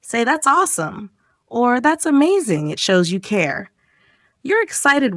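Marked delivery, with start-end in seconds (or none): 0.2-1.8 high, big praise; enthusiastic. Shown as a demonstration. Teacher urging a big reaction to good news, excited. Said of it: "Go big". 1.8-2.7 That's amazing said high and enthusiastic; go big. Shown as a demonstration. Teacher showing the bigger reaction to good news, excited. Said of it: "Go big".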